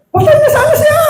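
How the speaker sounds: high laughing cry from the pulpit; laughing exclaim. Real, not acted. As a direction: laugh it out in disbelief. Preacher laughs at near-death.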